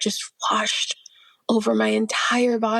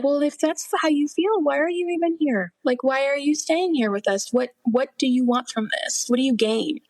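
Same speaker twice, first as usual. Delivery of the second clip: higher-pitched indignant demand, easing by the end; retold upset yell; 4 semitones higher than usual. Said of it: "I got really upset and I yelled".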